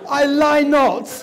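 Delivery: slow, high, loud through laughter; smug child. Retold or imitated. Little girl to speaker after winning, slow and smug. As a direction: gloat like a sly little girl. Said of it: "the child looked at me and went".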